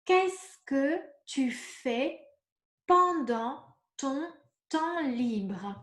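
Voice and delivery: Qu'est-ce que tu fais pendant ton temps libre asked very slowly, each word apart; slow model question. Shown as a demonstration. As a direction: ask the model question slowly so learners catch every word. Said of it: "if I ask you".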